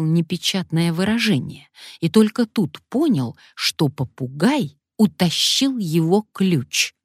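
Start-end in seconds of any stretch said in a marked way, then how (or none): none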